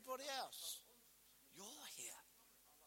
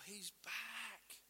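slow, drawn-out declaration; slow emphatic. Real, not acted. Preacher corrects the congregation about Pentecost, slow emphatic. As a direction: let each word land. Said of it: "slow emphatic declaration".

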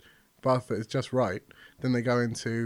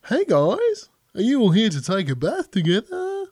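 higher, louder, bright Australian receptionist greeting; 9 semitones higher, 6 dB louder than usual. Acted. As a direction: ham up the Australian accent as a cheery receptionist. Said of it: "Yeah, she's Australian".

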